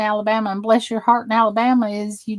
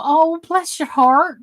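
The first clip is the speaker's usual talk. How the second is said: "Oh, bless your heart" raised and kindly; sympathetic bless your heart; 6 semitones higher than usual. Retold or imitated. Consoling a friend whose mama died, sympathetic. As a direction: comfort someone who lost their mama. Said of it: "and you go".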